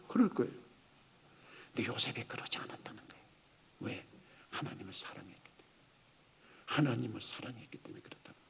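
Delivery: barely voiced, hushed preaching; very soft and low; solemn near-whisper. Real, not acted. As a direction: let the point sink in, almost whispered. Preacher hushes for the key point.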